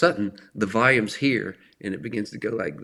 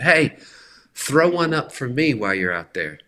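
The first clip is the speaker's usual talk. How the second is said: calling out; 2 semitones higher, 4 dB louder than usual. Retold or imitated. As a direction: call across a parking lot to a friend. Coworker calling across parking lot.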